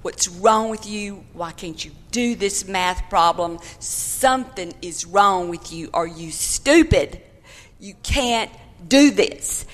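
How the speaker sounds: mild mock yell of a harsh teacher; retold scream. Becky retelling Missus McNeil screaming at her, mild mock yell. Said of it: "just a screaming at me".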